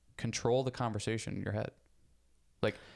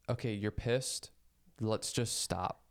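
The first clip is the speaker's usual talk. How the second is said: slow, steady talking-down of yourself; unhurried, measured self-calming; slower than usual. Retold or imitated. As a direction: soothe your own anger like a parent. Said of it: "I'm typically like".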